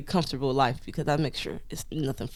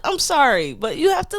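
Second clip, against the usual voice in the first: retold plea; 11 semitones higher, 4 dB louder than usual. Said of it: "I'm like".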